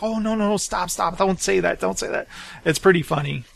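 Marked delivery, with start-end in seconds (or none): 0.0-2.3 mock-anxious pleading under the breath; rapid repeated protests, mildly urgent; Janosch. Co-host acting out Janosch's reaction in that scene, mock-anxious protest. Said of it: "he's like".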